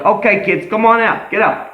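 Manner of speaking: put-on calling the kids out of the van, high and loud; a hammed-up rescuer's call, high and loud. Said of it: "And I was like".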